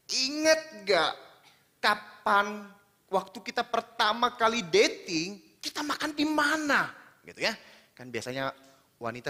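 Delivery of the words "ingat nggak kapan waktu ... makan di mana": mock quizzing wife.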